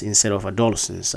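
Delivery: adolescence with LES stressed, short e; correct pronunciation. Shown as a demonstration. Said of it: "the word is actually pronounced as".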